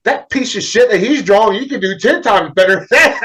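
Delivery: imitating the wife's heated protest; mock angry wife.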